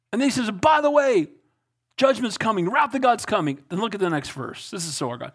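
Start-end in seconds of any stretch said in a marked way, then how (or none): 0.5-3.6 higher, pointed warning; warning prophet. Acted. Prophet warning the king that wrath is coming, pointed and higher. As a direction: drop the threat almost casually.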